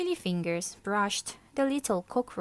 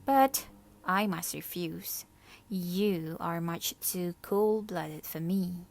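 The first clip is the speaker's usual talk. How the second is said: icy. Acted. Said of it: "Martina said icily".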